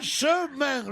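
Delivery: southern French "Franchement" pulled into "frain-che-main"; overdone southern French vowels on "Franchement"; mock southern accent. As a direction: mimic the Midi "Franchement", every syllable sounded. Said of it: "et le main est affreux".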